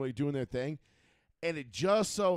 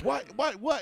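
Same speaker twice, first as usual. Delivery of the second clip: excited disbelief; 12 semitones higher, 5 dB louder than usual. Retold or imitated. Everybody freaking out.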